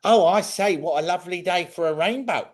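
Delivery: high-pitched, hammed-up posh English accent; lilting storybook English accent, pitched high; Mary Poppins English accent. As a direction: do a caricature of a proper English accent. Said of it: "Most Americans think it's either Mary Poppins".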